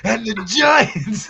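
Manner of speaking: drawn-out mock holler; real loud. Teasing Miz about his video style, mock loud. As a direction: imitate him suddenly getting loud, stretching it slowly. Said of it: "you get close and get real loud".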